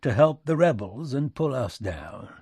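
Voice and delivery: loud back-country tirade; folksy statesman working up steam; indignant President Lincoln, accusing. Acted. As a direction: accuse the European powers heatedly.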